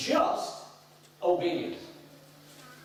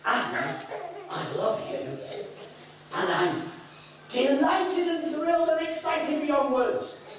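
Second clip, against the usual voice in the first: laughing delight; 11 semitones higher, slower than usual. Retold or imitated. Father voiced, laughing with delight.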